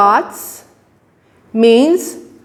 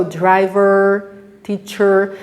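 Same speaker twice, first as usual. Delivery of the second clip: driver and teacher with a clear R at the end; American rhotic; slower than usual. Shown as a demonstration. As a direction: roll the R like American English. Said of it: "they would say".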